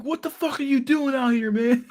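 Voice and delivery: very high-pitched comic impersonation; exaggerated high mimicking voice; mock freak-out voice. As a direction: squeal it like someone freaking out. Acted quote after "He's like.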